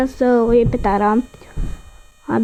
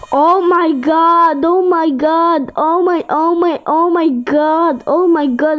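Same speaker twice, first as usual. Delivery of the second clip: slow, drawn-out, higher oh my god, over and over; excited yelling; 4 semitones higher, slower than usual. Real, not acted. Gamer sees who he got in game, thrilled. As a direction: stretch each oh my god out, thrilled. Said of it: "Îmi pare rău că țip".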